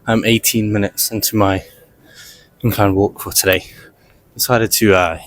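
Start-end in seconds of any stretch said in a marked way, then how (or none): 0.0-3.6 out of breath on a treadmill. Real, not acted. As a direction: talk while breathing hard from walking. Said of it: "if I'm sounding out of breath".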